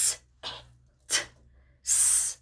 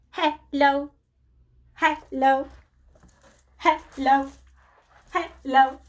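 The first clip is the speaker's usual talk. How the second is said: lightly robotic, evenly spaced hellos; robot talk; slower than usual. Pretend. Teacher in a robot costume greets children, lightly robotic. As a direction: say hello like a toy robot, a hint of machine. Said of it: "listen to that robot talk".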